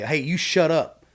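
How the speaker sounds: pointed, drawn-out command; telling someone off. Shown as a demonstration. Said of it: "like, telling somebody".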